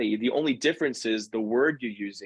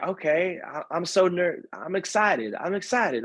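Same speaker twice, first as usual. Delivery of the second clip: higher, hesitant voice, talking herself into it; the nervous partner trying out the word excited, pitched up; imitating Kelly; 6 semitones higher than usual. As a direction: partner repeats his advice back to him, voiced higher and unsure. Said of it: "she was like".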